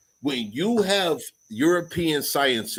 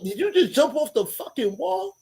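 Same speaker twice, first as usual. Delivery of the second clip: amazed disbelief; 13 semitones higher than usual. Retold or imitated.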